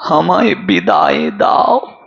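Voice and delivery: low, halting dying plea; imitating a failing invalid's low words; barely able to speak. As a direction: plead feebly, as a bedridden woman. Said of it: "কথাও বলতে পারেন না, শুধু বলেছিলেন".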